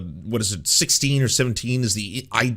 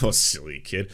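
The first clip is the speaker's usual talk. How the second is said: lower, patronizing adult voice; mock indulgent dismissal; 6 semitones lower than usual. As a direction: wave the child off indulgently. Same dismissive adult, repeated.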